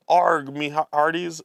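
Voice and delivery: loud pirate greeting; a touch of hammy pirate. Acted. Reads pirate character's card.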